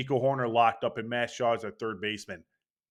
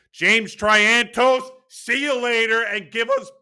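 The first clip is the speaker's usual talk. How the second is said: so hyped the voice breaks upward and louder; hyped voice crack; 9 semitones higher, 7 dB louder than usual. Real, not acted. Fan hyping his dream trade to viewers, real excited voice crack. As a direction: voice shoots up high and cracks from excitement. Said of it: "that was a bad frickin' voice crack".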